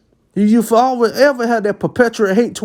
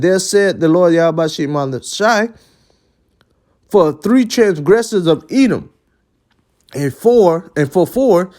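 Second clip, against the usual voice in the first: scripture reading. Acted. Reads Amos one and eleven.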